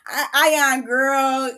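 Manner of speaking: words pushed out through real laughter; laughing. Real, not acted. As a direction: try to talk but keep laughing. Laughing at the show.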